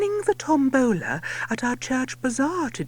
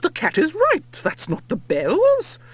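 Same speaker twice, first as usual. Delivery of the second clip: louder, higher interrupting lady; yelling lady; 5 semitones higher, 4 dB louder than usual. A narrator's reading. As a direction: butt in with a yell. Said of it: "Her ladyship butts in and yells".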